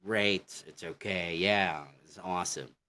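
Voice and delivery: casual American approval; demonstrating an easygoing American accent. Acted. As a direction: lightly imitate an American reacting. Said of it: "like in American".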